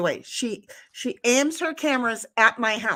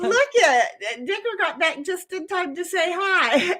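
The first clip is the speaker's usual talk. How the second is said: higher, eager greeting; excited announcement; 7 semitones higher than usual. Acted. H T announcing Digger is back, excited. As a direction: point it out with excitement. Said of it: "H T's like".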